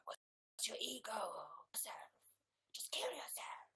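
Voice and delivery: whispered inner voice; sinister mock whisper. Ego speaking inside someone's head, eerie whisper.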